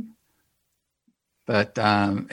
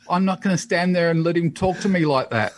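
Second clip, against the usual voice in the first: huffy retort; 6 semitones higher, faster than usual. Retold or imitated. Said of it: "she says to the producers".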